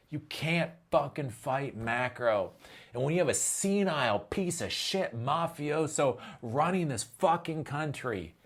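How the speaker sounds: ordinary delivery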